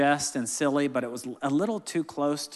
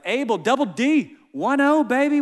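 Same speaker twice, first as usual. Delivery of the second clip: birthday cheer; 10 semitones higher, 7 dB louder than usual. Real, not acted. Birthday morning cheer to son.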